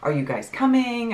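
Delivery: mildly fretful retold question; worrying. Daughter imitating mom checking on her, mildly worrying. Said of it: "like, worrying".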